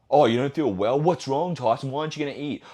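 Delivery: lightly imitated prying friend; mock-concerned friend. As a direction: act out a fussing friend a little. Mimicking a friend questioning a refusal.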